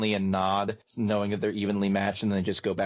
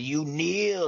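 retold yell; 7 semitones higher than usual. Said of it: "he's yelling".

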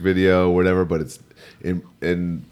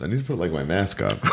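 nose held shut; pinching nose; 5 dB quieter than usual. Real, not acted. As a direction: talk with your nose pinched. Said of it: "As I hold my nose".

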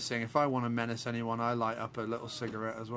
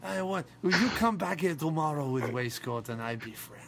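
mock Russian; 2 semitones higher than usual. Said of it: "why is he suddenly Russian?".

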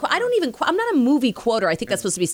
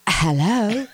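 drawn-out mock London hello; put-on London phone voice, stretched out; imitated London accent. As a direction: greet with an exaggerated London accent. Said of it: "I imitate him every time".

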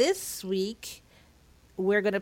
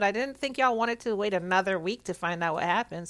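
talking through clenched teeth; faster than usual. Real, not acted. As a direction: speak with teeth clenched from a sore cheek. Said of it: "hear me talking with clenched teeth".

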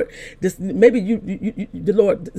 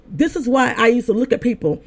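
raised, emphatic preacher's delivery; preaching; 5 semitones higher than usual. Real, not acted. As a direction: exhort the congregation, pitched high. Preaches to the listeners.

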